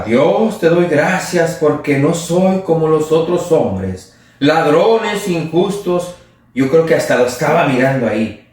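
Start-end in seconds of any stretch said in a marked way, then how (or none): 0.0-6.2 proud pharisee. Retold or imitated. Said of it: "De esta manera oraba".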